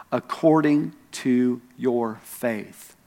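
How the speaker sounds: "your faith" drawn out slowly, word by word; slow, weighty "According to your faith"; stress on "your faith". Retold or imitated. Jesus to the blind men, slow stress on "your faith". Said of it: "He put the emphasis on their faith".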